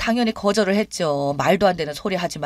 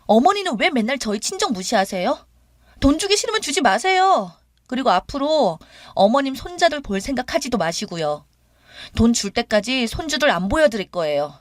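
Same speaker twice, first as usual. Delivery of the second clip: indignant outburst; 5 semitones higher than usual. Retold or imitated. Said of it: "방방 뛰면서".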